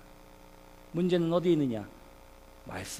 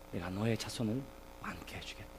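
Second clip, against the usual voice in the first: soft, low voice of God; God's hushed assurance to Abraham; hushed divine promise; 9 semitones lower, 13 dB quieter than usual. Acted. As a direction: promise it quietly, almost fading away. Voicing God promising descendants to Abraham.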